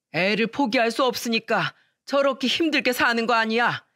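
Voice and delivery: a father-in-law dressing her down, voice lifted; scolding father-in-law. Retold or imitated. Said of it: "완전히 호통을 치면서 혼내기를".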